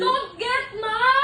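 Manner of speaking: slow demo. Shown as a demonstration. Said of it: "no angry!".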